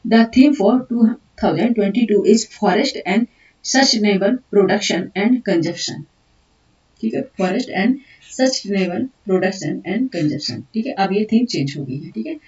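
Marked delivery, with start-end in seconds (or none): 0.1-10.6 slow, deliberate dictation of English notes. Acted. Teacher dictating notes to students, slow and deliberate. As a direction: dictate each word so students can write.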